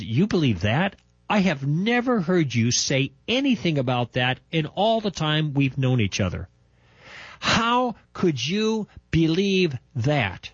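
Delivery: disbelieving, drawn out slowly at the end; incredulous. Retold or imitated. Best friend stunned by my new faith, incredulous. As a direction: ask it like you can't believe your ears. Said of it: "Vic looks at me incredulously".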